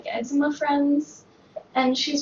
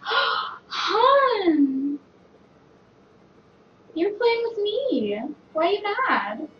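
put-on baby talk to pet; 8 semitones higher, much slower than usual.

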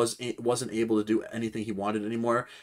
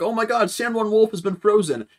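much higher, louder alarmed cry; mock panic; 9 semitones higher, 5 dB louder than usual. Pirates panicking over frozen San Juan Wolf, higher and louder. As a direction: freak out at the frozen giant. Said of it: "They're like".

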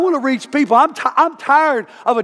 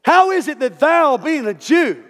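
woman's attitude; 3 semitones higher, slower than usual. Acted. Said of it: "can you see her attitude?".

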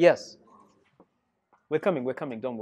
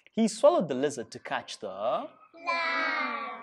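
put-on lively, sing-song read-aloud for kids; animated storybook narration; reading to children. A narrator's reading. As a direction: tell it like a storybook to a class. Reads picture book to children.

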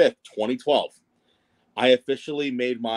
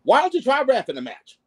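higher, louder hammed-up wrestling manager voice; a deliberately bad impression of the veteran manager, pitched way up; mock old-school wrestling manager, higher and louder; worst Jimmy Hart accent; 12 semitones higher, 4 dB louder than usual. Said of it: "I'm gonna say in my worst accent ever".

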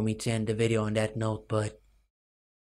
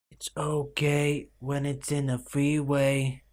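ridiculous voice; 3 semitones higher, slower than usual. Pretend. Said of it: "That sounded pretty ridiculous".

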